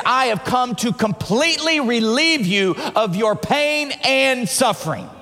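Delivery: weighty, stretched-out rhetorical question; fervent build to a climax; emphatic preaching. Real, not acted. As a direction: proclaim it to the whole congregation.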